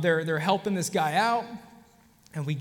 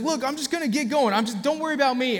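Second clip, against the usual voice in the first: dismissive patient; 7 semitones higher, 4 dB louder, faster than usual. Retold or imitated. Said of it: "He's like".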